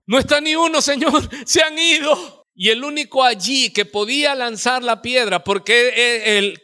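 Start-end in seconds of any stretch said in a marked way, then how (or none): 0.1-2.4 high, loud, slowed exclaiming with a laugh; woman's eager reply. Acted. The woman tells the Lord her accusers are gone, high and excited. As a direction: cry it out like the forgiven woman, half laughing. Woman answers Jesus, retold scene.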